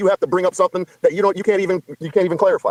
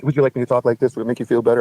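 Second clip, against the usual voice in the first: mock lower voice; 7 semitones lower than usual. Shown as a demonstration. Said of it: "you can talk louder".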